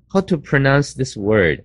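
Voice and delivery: brusque, bossy ask; impolite, ordering version of the question; commanding demo. Shown as a demonstration. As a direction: sound like you're giving an order. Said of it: "好像命令人家一样".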